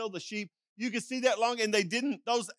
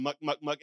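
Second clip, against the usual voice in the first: shepherd's call; 6 semitones lower than usual. Retold or imitated. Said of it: "the other one's going".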